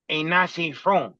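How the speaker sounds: slow mock Spanish accent, "ain't nothing from" drawn out. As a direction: imitate the Spanish-accented guy insisting, slowly. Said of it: "he had a heavy Spanish accent".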